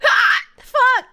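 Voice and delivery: sudden loud, high hiccup yelp; real hiccup, then exasperated swearing; hiccup outburst. Real, not acted. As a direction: yelp as a hiccup breaks through. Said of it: "I'm trying to not hiccup".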